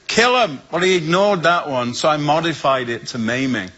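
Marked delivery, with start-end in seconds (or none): 0.1-0.6 high plea. Retold or imitated. Retold prayer, high pitched.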